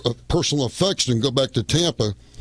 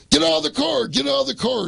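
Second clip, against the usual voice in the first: mock police order; 11 semitones higher than usual. Cops ordering them out.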